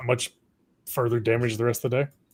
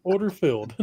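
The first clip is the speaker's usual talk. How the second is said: lightly British order call; clipped British trader voice; British accent; 5 semitones higher than usual. Retold or imitated. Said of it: "British guy going".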